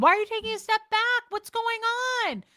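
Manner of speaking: loud, high and fast anxious prying; hammed-up frantic friend demanding answers; mock needy friend. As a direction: beg for the gossip like a clingy friend. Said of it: "the response she wanted was".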